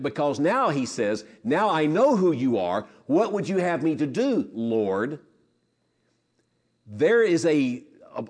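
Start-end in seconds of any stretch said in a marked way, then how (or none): 1.4-5.2 deeper respect. Retold or imitated. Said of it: "say it with a deeper respect".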